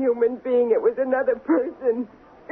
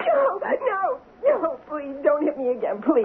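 frightened pleading; 2 semitones higher than usual. Acted. Millie begs her husband Ralph not to hit her again, frightened.

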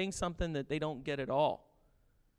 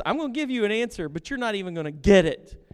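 voicing Jesus; 4 semitones higher, 9 dB louder than usual. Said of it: "And he says".

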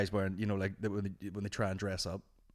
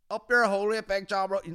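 high, loud burst of insult; sudden loud quoted yell; shouted saying; 10 semitones higher, 8 dB louder than usual. Acted. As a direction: blurt it out as a proud catchphrase. Quoting the wise man's saying.

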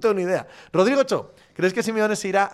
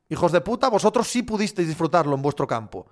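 ordinary delivery

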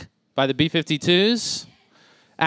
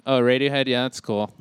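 a hint of a smug hipster, lower; dismissive music snob, understated; lightly voiced snob hipster; 3 semitones lower than usual. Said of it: "they're like".

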